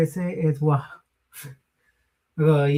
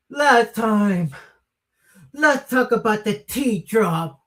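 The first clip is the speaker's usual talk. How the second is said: wrestling promo; 5 semitones higher than usual. Pretend. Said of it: "I should do that in my voice".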